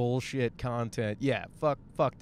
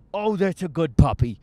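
louder, sing-song puppy talk; cooing at a dog; 6 dB louder than usual. Real, not acted. Vlogger spots a German Shepherd, coos puppy talk. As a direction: gush over the good dog.

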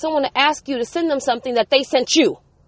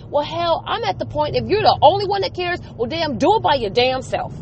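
getting worked up; 3 semitones higher than usual. Real, not acted. Venting to viewers about a board member, heated and rising. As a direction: let the real frustration boil over. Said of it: "Sorry, I'm getting a little worked up".

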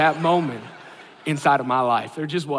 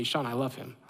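soft whisper of God; 5 semitones lower, 11 dB quieter than usual. Retold or imitated. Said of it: "God just whispers to me".

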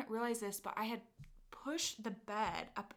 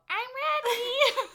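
high coy client voice; 12 dB louder, slower than usual. Retold or imitated. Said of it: "I hear her go".

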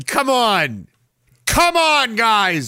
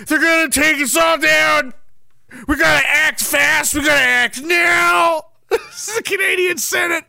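mock alarmed senator; 6 semitones higher than usual. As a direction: rouse the chamber in fake alarm.

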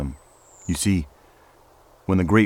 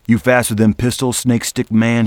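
gruff challenge; 5 semitones higher, 5 dB louder than usual. Acted. Hall challenges the stranger.

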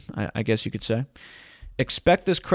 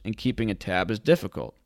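ordinary talk

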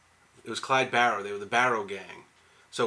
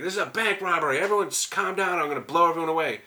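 higher, commanding holdup call; bank robber announcement; 6 semitones higher than usual. Retold or imitated. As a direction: take over the room, voice raised.

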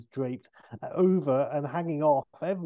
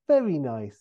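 Austin Powers; 7 dB louder than usual. Acted. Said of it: "And Austin".

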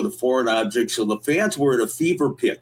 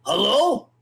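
higher phone hello; Ricky's voice; 6 semitones higher than usual. Retold or imitated. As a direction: answer in the high Ricky voice. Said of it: "with the same voice as Little Ricky".

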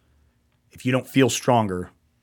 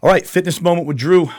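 announcer hype; 8 semitones higher, 8 dB louder than usual. Real, not acted. Host announces a show segment.

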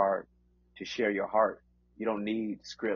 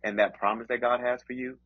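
preaching. Acted. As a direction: preach with rising conviction. Delivers encouragement as preaching.

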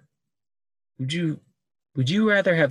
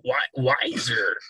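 Yoda voice. Pretend. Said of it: "let me get the voice, the Yoda voice".

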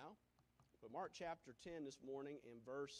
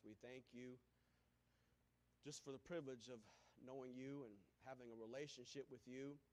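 public prayer. Real, not acted. Leads the congregation in prayer.

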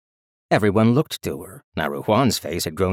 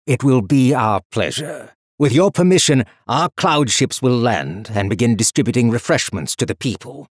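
louder, courtly emperor voice; formal emperor; 4 semitones higher, 6 dB louder than usual. Acted. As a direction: proclaim like a gracious ruler.

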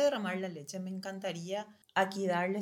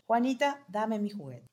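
firm but not shouting; 3 semitones higher, 5 dB louder than usual. Shown as a demonstration. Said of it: "le hablas firme, pero sin gritar".

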